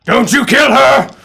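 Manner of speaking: loud high desperate bellow, repeated; bellowing chieftain. Acted. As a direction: bellow it like a frantic old chieftain. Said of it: "You hear this bellowing voice".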